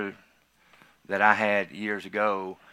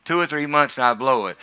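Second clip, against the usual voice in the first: full-force preaching; 5 semitones higher, 12 dB louder than usual. Real, not acted. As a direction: shout it over the congregation.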